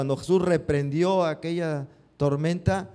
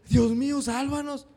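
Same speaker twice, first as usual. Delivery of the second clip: "Dios mío" muy agudo, "sálvanos" quebrado y suave; súplica a Dios; 10 semitones higher than usual. Shown as a demonstration. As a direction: clama desesperado a Dios. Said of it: "en lugar de decir". (súplica aguda de auxilio)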